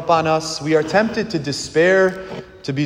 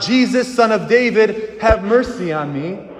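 repeated plea acted out, pitched higher; crying out; 6 semitones higher than usual. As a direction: call out insistently, lightly acted. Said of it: "he cries out".

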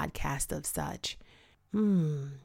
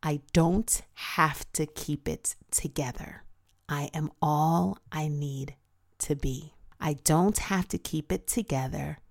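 slow, deliberate self-affirmation; speaking an affirmation into the mirror, slow and sincere. Shown as a demonstration. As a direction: say it to your own eyes, slowly. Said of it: "say the statement".

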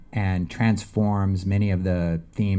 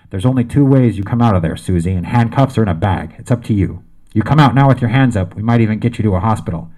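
fast, louder, as if through a megaphone; bullhorn voice; 7 dB louder, much faster than usual. Acted. Police officer warning the woman to come out, over a bullhorn. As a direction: rattle off the terms over a bullhorn. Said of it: "came the voice over the bullhorn".

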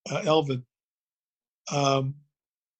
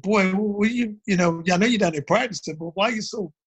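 lightly voiced mother, higher pitch; a hint of a baffled mom, pitched up; imitating puzzled mom; 5 semitones higher than usual. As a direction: question your kid in bewilderment. Acts out mom questioning him.

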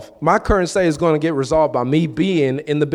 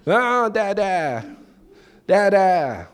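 put-on higher, drawn-out toddler call; 5 semitones higher, much slower than usual. Little Cohen calling for his father, drawn-out. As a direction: call for dada like a little one. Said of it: "even now with Cohen".

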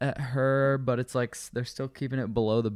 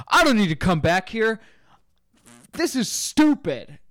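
loud, much higher indignant retort; angry customer; 8 semitones higher, 6 dB louder than usual. Retold or imitated. Customer telling the bartender he won't return, loud, much higher and offended. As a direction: huff it out, offended.

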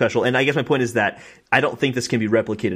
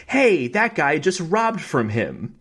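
slow mock bystander call; 5 semitones higher, much slower than usual. NPC bystander calls out.

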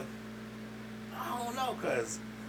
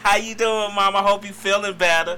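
sultry greeting; 6 semitones higher, 7 dB louder than usual. Pretend. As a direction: lay on the charm for mama. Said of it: "She wants the devil".

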